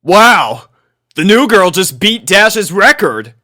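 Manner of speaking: loud, high excited shout; crowd shout. A narrator's reading. A spectator shouts out in amazement, loud and high. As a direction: call it out from the crowd. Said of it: "someone in the crowd shouted out".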